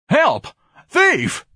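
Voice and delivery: very high, loud shriek; screaming for help. A narrator's reading. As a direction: cry thief. Ignatius screams again.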